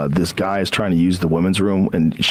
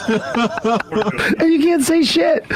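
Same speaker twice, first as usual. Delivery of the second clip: mock comedian aside; much slower than usual. Quoting Breuer bit, slow.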